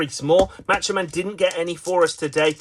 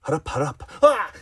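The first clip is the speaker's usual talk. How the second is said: weary defeated cheer. Acted. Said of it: "He usually says, "Hurrah, hurrah." Today he says".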